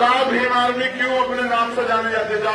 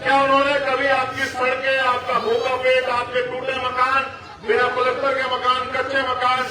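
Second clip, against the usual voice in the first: rally oratory in measured phrases; political speech; 3 semitones higher than usual. Real, not acted. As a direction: address the crowd as an orator. (चुनावी सभा का भाषण)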